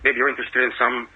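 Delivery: attempted American accent, still vaguely foreign; best American accent. Aspiring actor approaching Spielberg for an audition, attempted American accent. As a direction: speak in your best American accent with Eastern European traces. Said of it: "speak to me in your best American accent".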